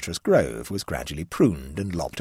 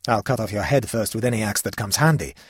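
indignant; 3 semitones higher, 4 dB louder than usual. Acted. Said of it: "said Vespalius indignantly".

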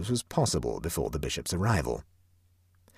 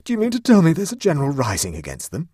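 high, louder agitated question; alarmed Huddle; 10 semitones higher, 7 dB louder than usual. A narrator's reading. Huddle demanding answers from Clovis, high and loud. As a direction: press the point high and loud.

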